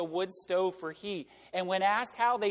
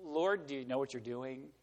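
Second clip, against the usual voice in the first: lower, softer, tentative aside; hushed doubting question; 5 semitones lower, 6 dB quieter than usual. Acted. Habakkuk doubts God's plan, hushed and tentative. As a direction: question God cautiously, under your voice.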